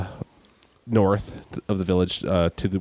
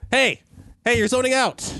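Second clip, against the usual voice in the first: put-on old woman voice; 13 semitones higher than usual. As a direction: nudge him awake, old woman. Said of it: "the elderly woman".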